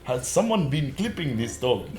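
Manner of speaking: mimicked Indian accent. Listener teasing the storyteller, mock Indian accent. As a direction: tease by echoing it in an Indian accent. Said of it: "it went a bit Indian in that last bit".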